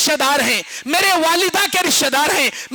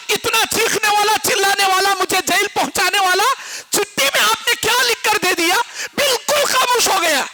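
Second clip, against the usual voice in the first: raised, higher voice of an astonished bystander; amazed question; 5 semitones higher than usual. Retold or imitated. Bystander asks the mutawwa what he wrote, amazed and raised.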